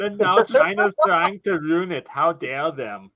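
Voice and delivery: put-on Austrian action-star accent; mock action-hero voice; Arnie. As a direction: boast like an Austrian muscleman. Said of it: "can you do the audio impression?".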